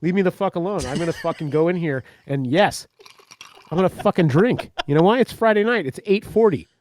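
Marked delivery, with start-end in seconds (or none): 0.0-0.9 fast, higher indignant retort. Retold or imitated. Husband retelling his comeback to his wife, fast mock-indignant retort. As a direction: brush her off, offended. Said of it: "And I'm like".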